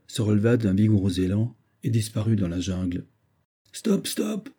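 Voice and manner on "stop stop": sharp cry. Acted. Banks orders the engine driver to halt, urgent cry. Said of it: "cria vivement Banks au mécanicien".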